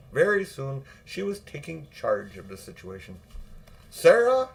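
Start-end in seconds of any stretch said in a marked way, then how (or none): 3.9-4.5 loud, high call of the maid's name; aunt calling out. A narrator's reading. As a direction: summon the maid sharply. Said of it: "she said to the housemaid".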